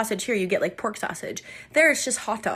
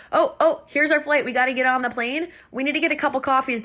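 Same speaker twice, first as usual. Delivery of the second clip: higher, louder, hurried alert; excited re-enactment; 5 semitones higher, 4 dB louder, faster than usual. Retold or imitated. Traveler rallying the group at the airport, excited. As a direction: act out suddenly spotting your flight.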